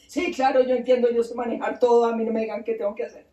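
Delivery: quick, impatient acted reply; cocky brush-off. Nergal brushes off the god's warning, cocky and impatient. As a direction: rattle it off as if you know it all.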